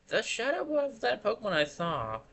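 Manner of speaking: ordinary talk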